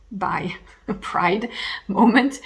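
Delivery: whispered with a laugh. Real, not acted. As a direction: giggle through a hushed aside. Joking confession aside.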